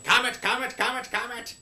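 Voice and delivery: high, loud repeated cry of alarm; hammed-up high-pitched yelling. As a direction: yell it high like a town crier.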